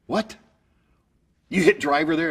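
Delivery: high, loud incredulous question; shocked. Retold or imitated. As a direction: squeak the what, then demand. Coach shocked at the nine.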